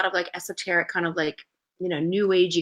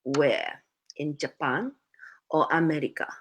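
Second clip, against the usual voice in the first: unimpressed mom; 4 semitones lower, 5 dB quieter than usual. Retold or imitated. Acting out mom's sober reply.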